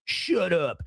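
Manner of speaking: mocking MAGA fan. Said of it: "They will go".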